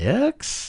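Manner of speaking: rising, question-like lilt on "X". Listing the podcast's social media accounts, rising question lilt on X. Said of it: "I'm saying that with a lilt in my voice. Like a question mark?".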